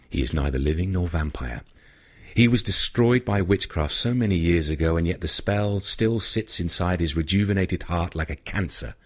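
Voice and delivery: put-on a low, grave old vampire explaining a dark secret; lightly voiced ancient vampire, measured and grim; low vampire elder. Ishmael reveals Caleb's secret to Rintel, low and grave.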